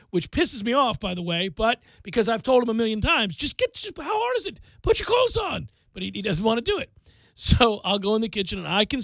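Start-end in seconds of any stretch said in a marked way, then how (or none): 3.4-5.7 higher, pleading exasperation; how hard can this be; exasperated dad. Retold or imitated. Dad begging his son to put clothes on, exasperated.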